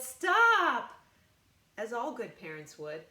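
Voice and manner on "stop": sharp, much louder and higher shout; yelled stop. A narrator's reading. Parents yell at Ada climbing the clock, loud shout. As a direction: bark it out to freeze the child. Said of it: "Her parents yelled".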